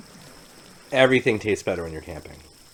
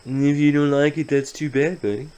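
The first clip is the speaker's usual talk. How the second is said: mock defiance; 8 semitones higher, 7 dB louder than usual. Defends his bad accents to viewers.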